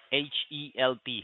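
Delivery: letters spelled out one by one; dictating. Real, not acted. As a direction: spell out each letter separately. Spelling a web address aloud.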